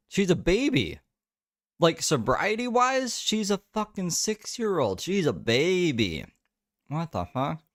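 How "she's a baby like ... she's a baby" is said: incredulous squeal. Real, not acted. Teasing friend's sobriety age.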